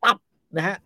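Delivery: ordinary talk, nothing marked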